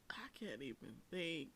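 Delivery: unvoiced whispered aside. Real, not acted. Host stuck for a comparison, whispering. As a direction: drop to a whisper, half to yourself.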